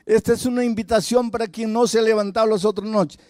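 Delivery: high, sustained preacher's call; altar invitation. Retold or imitated.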